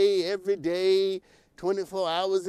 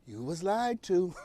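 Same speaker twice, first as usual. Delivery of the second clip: slow and quieter, each word spelled out; said again slowly; 6 dB quieter, slower than usual. Shown as a demonstration. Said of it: "I'll just say it again".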